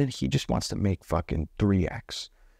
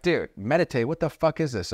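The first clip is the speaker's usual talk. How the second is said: incredulous salesmen; 7 semitones higher than usual. Retold or imitated. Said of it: "they're like".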